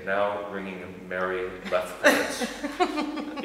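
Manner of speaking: slow, stiff automated phone voice; computer voice. Retold or imitated. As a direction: read it like a robotic switchboard. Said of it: "the voice would say".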